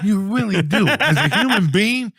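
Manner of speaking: high, loud indignant rant; angry telling-off. Retold or imitated. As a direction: berate the kid, building to a shout. Telling off the airline kid.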